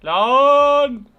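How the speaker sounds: loud, high burst of fright; one loud shocked cry; startled yell. Real, not acted. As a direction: shout in a real jump scare. Jump scare in game.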